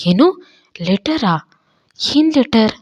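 shocked disbelief rising sharply. Acted. Sharath hears about the letter, shocked and rising. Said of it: "ಅಂತ shock ಆಗ್ತಾನೆ".

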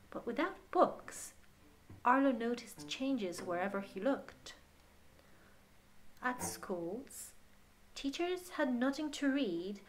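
gentle picture-book reading voice; story narration. Acted. Reading the picture book aloud to a child, gentle storytelling. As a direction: read it to children at bedtime.

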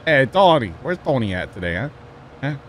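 light East Coast Boston caricature; mock Boston accent. Teasing Sean by asking after Tony, Boston accent. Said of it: "I'm making fun of Sean".

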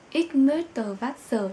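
slow ich möchte Wasser, each word clear; example sentence. Shown as a demonstration. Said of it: "Ví dụ như là". (đọc chậm ich möchte Wasser)

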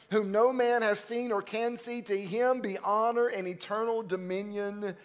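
solemn Bible reading, slowing toward the amen; scripture reading. Acted. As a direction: read the passage with solemn weight. Reads scripture before preaching.

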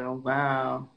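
usual speaking voice

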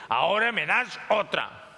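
lightly voiced demand for another; insist, a little firmer; mild bossy craving. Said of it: "Y sube la voz".

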